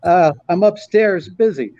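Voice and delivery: a light Rodney telling his fix; Rodney Dangerfield voice. Retold or imitated. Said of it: "he goes".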